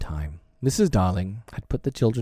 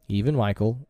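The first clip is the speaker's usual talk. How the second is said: ordinary delivery, nothing marked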